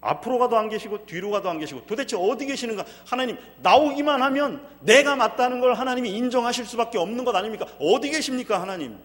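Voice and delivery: loud, high pleading cry to God; anguished cry. Acted. Preacher voicing Job's lament, loud pleading cry. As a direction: cry out like a man who can't find God.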